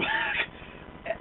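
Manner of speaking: squeaky very high disbelief; strangled disbelieving squeak; incredulous squeak. Real, not acted. Incredulous squeal mid-rant.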